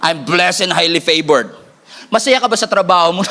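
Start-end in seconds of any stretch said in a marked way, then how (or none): 0.0-1.6 slow, lower, laughing brag; mock-confident; sassy with attitude. Shown as a demonstration. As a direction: drawl it with a raised eyebrow. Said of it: "With an accent, with an attitude, with an eyebrow".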